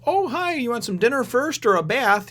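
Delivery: high, gushing welcome; fawning admirer. Retold or imitated. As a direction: imitate a smitten man doting on her. Smitten cook fawning over returning woman.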